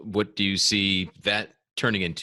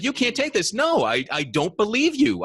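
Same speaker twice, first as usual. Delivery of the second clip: laughing denial; 13 semitones higher, 4 dB louder than usual. Retold or imitated. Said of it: "she's like".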